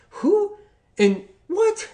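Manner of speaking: high, slow, stretched disbelief; drawn out like he can't believe it; incredulous. Real, not acted. Dentists blame lemon water.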